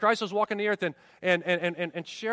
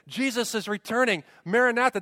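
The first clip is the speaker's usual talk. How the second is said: acted excitement, rising in force; excited anticipation; 2 semitones higher than usual. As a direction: proclaim it with anticipation. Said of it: "they did it with anticipation, excitement".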